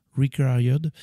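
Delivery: English "required" in a French accent, drawn out; slow French-accented "required". Real, not acted. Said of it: "mon accent anglais". (anglais à l'accent français)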